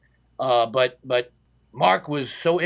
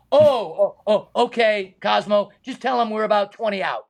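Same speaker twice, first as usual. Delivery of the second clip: higher, louder burst of realisation; retold surprised reply; 4 semitones higher, 3 dB louder than usual. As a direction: mildly act out a startled radio reply, then easing into agreement. Retold relieved surprise over the radio.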